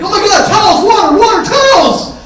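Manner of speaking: high, loud frantic calls; frantic yelling. Retold or imitated. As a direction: scramble for help, voice up high. Kids panic, blood pouring.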